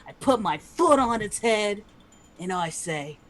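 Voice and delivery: put-on light Australian accent. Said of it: "Steve Irwin the Noblin".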